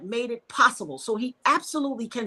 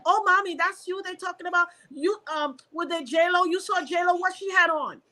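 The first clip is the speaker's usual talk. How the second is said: higher-pitched, eager gossiping nurse; chatty, pitched-up celebrity curiosity; nosy nurse; 7 semitones higher than usual. Retold or imitated. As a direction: imitate a starstruck nurse prying. Acting out gossipy, starstruck nurse.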